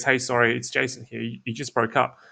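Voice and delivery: relaxed, easy opener; just catching up with a friend; casual laid back. Shown as a demonstration. Cold caller opening, casual and laid back. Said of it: "casual and laid back".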